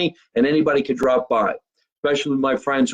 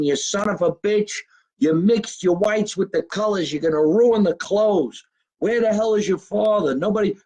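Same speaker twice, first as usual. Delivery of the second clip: imitating his late mother scolding, raised pitch; mock scolding as Mom, pitched higher; mother yelling; 6 semitones higher than usual. Late mother scolding her son over laundry and chores, mock yell. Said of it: "yelling at me, saying".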